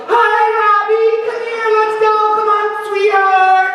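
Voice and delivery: a cheery mom calling sweetheart across the schoolyard; doting mom. Retold or imitated. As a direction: sing it out the car window to your embarrassed son. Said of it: "she'd go".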